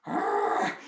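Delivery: rough wordless rooster noise. Acted. Rooster hopping out of charred mess, rough squawk.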